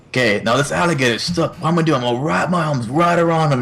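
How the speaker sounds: lightly imitated Australian wildlife host; Steve Irwin. Quoting Doctor Doolittle intro, light Aussie host impression. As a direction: give a hint of an excited croc hunter. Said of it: "every time I think of Steve Irwin".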